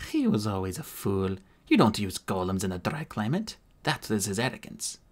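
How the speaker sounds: hint of an Irish lilt, scornful; lightly Irish-accented disdain. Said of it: "The accent was definitely Irish".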